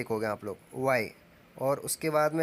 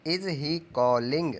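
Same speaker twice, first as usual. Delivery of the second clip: each word slowly spelled out for the class; slow dictation; 3 dB louder, much slower than usual. Shown as a demonstration. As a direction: build the question word by word, very slowly. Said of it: "पुकारने की meaning होती है call". (धीरे-धीरे बोलकर लिखवाना)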